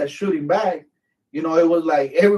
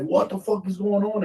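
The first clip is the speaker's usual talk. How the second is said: higher-pitched startled question; retold alarm; 6 semitones higher than usual. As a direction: imitate a startled soldier. Retold startled comrade under fire.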